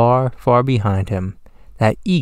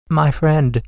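small, higher-pitched character voice; tiny speck voice; 6 semitones higher than usual. A narrator's reading. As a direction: speak up high as a tiny creature. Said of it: "came the voice".

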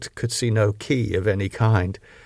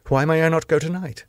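urgent plea; 6 semitones higher, faster than usual. Acted. Harker demands to leave.

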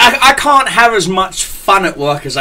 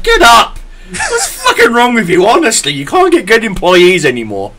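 angry boss yell; 7 semitones higher than usual. Retold or imitated. Boss yelling at the knocked-out kid, mock angry. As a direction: bark at the kid like a furious manager. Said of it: "my boss Graham comes downstairs and he goes".

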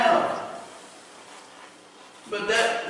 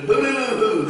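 higher singsong mimicked hallelujah; imitated hallelujah whoop; 4 semitones higher, 4 dB louder than usual. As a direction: mimic his garbled, hooting hallelujah. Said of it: "that's the way he said hallelujah".

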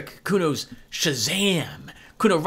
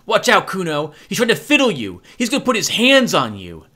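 put-on higher, louder alarmed kid voice; shrill warning kid; 6 semitones higher, 5 dB louder than usual. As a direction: warn him the cop is dangerous. Girl hisses warning from fence.

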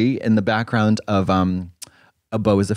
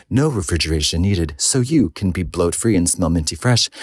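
ad read; 3 semitones lower than usual. Acted. Comedic ad read.

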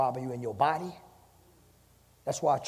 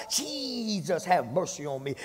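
shouting to Jesus; 3 semitones higher, slower than usual. Retold or imitated. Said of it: "that man shouted so loud".

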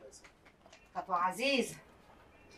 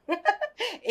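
proud laugh; 7 semitones higher than usual. Acted.

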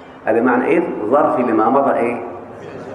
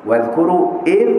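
إذ sung out higher on a rise; إذ pitched up and held for the class; stress on إذ; 5 semitones higher than usual. Shown as a demonstration. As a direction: point the class to إذ. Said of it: "أقول ظرف لما مضى من الزمان".

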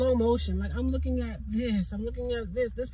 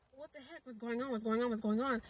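dazed murmur; 7 dB quieter than usual. Retold or imitated. Dazed, frozen in shock.

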